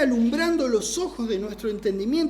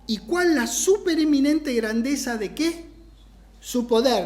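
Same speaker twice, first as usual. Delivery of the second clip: deliberate teaching re-read, broken into phrases; slower, careful reading; 2 semitones higher than usual. Shown as a demonstration. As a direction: spell out the verse piece by piece. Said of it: "lo voy a leer más despacito".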